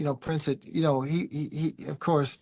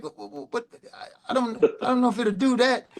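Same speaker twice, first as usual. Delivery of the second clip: higher, stammering through a laugh; flustered laughing; 7 semitones higher than usual. Retold or imitated. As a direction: laugh nervously, caught out.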